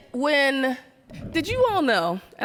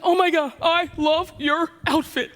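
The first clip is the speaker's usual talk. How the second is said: gushing woman; 5 semitones higher than usual. Retold or imitated. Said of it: "she's like".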